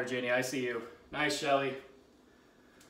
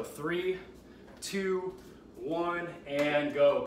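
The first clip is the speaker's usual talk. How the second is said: shouted countdown; 3 dB louder, much slower than usual. Real, not acted.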